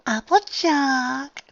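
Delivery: high, drawn-out breathy gasp. Acted. Dressmaker has a moment of enlightenment, gasping out. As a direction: gasp the name slowly in sudden realization. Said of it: "the dressmaker guessed out briefly".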